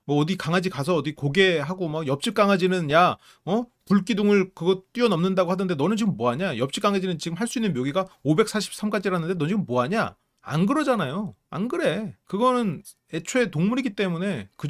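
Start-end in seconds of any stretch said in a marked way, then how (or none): 2.9-10.2 higher, louder nagging comparison; mock scolding. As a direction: nag like a parent comparing kids. Mock scolding dog, comparing neighbors.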